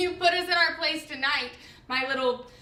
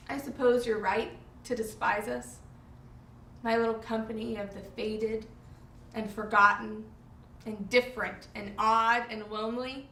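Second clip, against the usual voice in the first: tragic heroine sorrow. Acted. Resigned lament.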